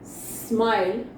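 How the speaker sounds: 'स्माइल' begun straight on s, no vowel before it; correct 'स्माइल'. Shown as a demonstration. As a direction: say 'स्माइल' slowly from a clean sm. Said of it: "it is not smile, it is smile". ('स्माइल' सीधे स् से, धीमे और साफ़)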